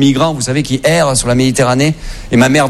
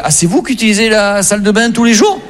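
puzzled wife; 5 semitones higher than usual. Retold or imitated. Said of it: "Elle se réveillait, elle fait".

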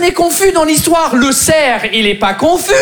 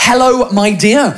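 slow English-accented greeting, pitched low; English accent, drawn out; 5 semitones lower, slower than usual. Shown as a demonstration. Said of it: "Redis-le avec ton accent".

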